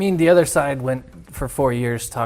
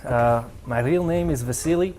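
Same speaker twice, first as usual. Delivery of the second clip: put-on Russian accent; 3 semitones lower than usual. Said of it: "do the whole show in your native tongue".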